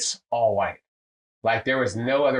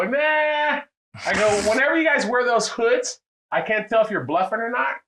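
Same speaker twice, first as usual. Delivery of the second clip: high, projected mock refusal; calling to the bar; 11 semitones higher than usual. Refusing the poker game in front of the whole bar, high projected mock refusal. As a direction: pitch it way up and play to the whole room.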